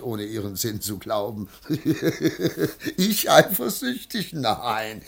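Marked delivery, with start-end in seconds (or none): 1.7-4.3 laughing off the charge; scoffing laugh. Acted. Husband to wife, scoffing at being called jealous.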